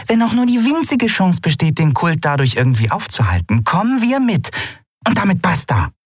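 high-pitched, insistent character voice; determined Nelen figure. A narrator's reading. Friend declaring the crew comes along, determined.

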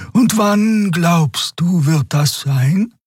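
high companion pressing her friend; Xea pressing. A narrator's reading. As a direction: push him for an answer in a high voice. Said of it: "Xea presses Kero".

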